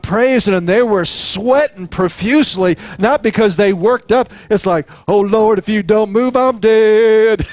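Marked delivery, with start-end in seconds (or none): 5.1-7.4 a worn-out worshiper begging God in mock panic; panicked praiser. Praisers sweating on the front line, mock desperate plea.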